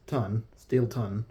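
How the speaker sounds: "Steel Ton" said slowly, testing the "ton" ending; trying another pronunciation. Shown as a demonstration. Gamer testing a town's name, slow and unsure. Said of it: "I don't know how they pronounce it".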